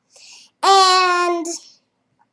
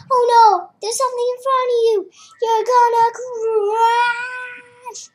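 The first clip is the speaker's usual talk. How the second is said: Mom voice; 6 semitones higher than usual. Acted. Mom voiced in game scene.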